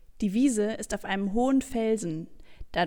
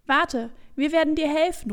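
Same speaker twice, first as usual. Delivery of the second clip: lauter, höherer Ruf; rufend; 7 semitones higher, 5 dB louder than usual. Acted. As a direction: ruf es eifrig hinunter. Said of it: "ruft ihr". (den Eimer ankündigend laut rufen)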